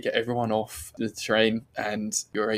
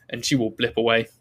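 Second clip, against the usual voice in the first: ordinary talk, nothing marked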